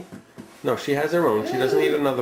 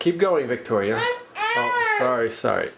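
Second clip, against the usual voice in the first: laughing; slower than usual. Real, not acted. Parent laughing at dinner.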